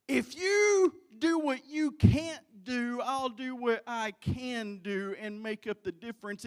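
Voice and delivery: booming declaration that eases off; emphatic promise. Acted. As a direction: proclaim it with preaching force. Preacher voicing God's promise emphatically.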